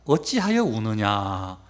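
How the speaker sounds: slow, low, measured angel; lightly voiced angel, drawing out the question; angel's question. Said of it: "천사들이 뭐라고 그러냐면".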